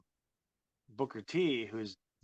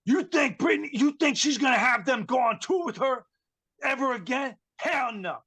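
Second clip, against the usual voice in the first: much higher, louder, drawn-out hammed-up yell; mock ranting shout; 12 semitones higher, 4 dB louder than usual. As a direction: bellow the comparison to a singer like a diva. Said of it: "and he's like".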